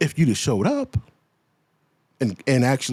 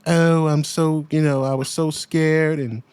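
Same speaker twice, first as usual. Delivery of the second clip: mock fake crying; 3 semitones higher than usual. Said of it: "she's fake crying".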